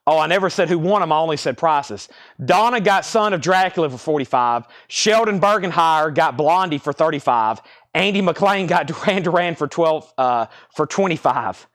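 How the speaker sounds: breathless, panting between words; out of breath. Real, not acted. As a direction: talk while catching your breath. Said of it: "As you see, I'm out of breath".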